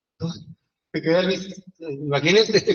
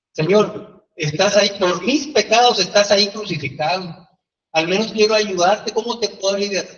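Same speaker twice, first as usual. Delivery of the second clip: raised, higher pleading to the Lord; acted earnest prayer; 3 semitones higher, 4 dB louder than usual. Believer to Jesus on the crucifix, mildly impassioned plea. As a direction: plead up to the crucifix, a touch louder.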